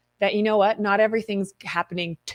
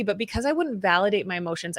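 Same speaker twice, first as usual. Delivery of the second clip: ordinary delivery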